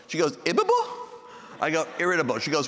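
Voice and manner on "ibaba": high mimicked questioning voice; puzzled wife. Wife repeating a word she misheard, puzzled. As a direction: echo the odd word high, baffled.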